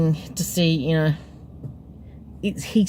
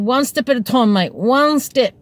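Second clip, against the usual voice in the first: firm, higher, slowing on final "one step"; coaxing instruction; 5 semitones higher than usual. Retold or imitated. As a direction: guide a drunk mate, leaning on "one step". Coaxing drunk man down the steps.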